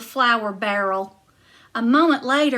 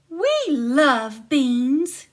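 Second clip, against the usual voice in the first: giantess huffy; 3 semitones higher, 4 dB louder, much slower than usual. Acted. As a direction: brush it off, pitched up.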